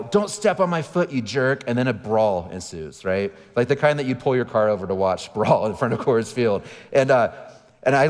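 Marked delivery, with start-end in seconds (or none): 0.0-1.7 put-on child's high, slow, indignant yell; kid yelling. A kid yells at a sibling at the stadium gate, indignant. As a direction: whine it out like an upset kid. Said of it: "I hear one of my kids yell".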